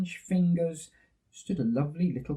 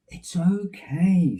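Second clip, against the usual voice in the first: soothing; 3 semitones higher, slower than usual. Acted. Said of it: "said Daddy Bear soothingly".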